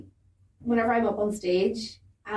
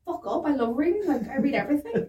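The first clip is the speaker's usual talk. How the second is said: higher, mock-offended comeback; indignant retort; 4 semitones higher than usual. Book lover answering people who say read more, mock indignant. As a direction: bat the advice away indignantly.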